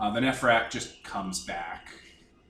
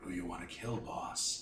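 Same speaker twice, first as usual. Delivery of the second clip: eerie, low, spectral voice, very hushed; 6 semitones lower, 14 dB quieter than usual. Recounting the game, the speaker voices the Nephrak receiving the strip: Nephrak's low ghostly tone. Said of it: "says in a low, ghostly tone".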